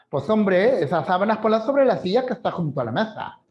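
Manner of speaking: put-on quick light Andalusian accent with ceceo. Teacher imitating an Andalusian speaker for students, quick ceceo. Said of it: "todos ellos lo pronuncian con la Z".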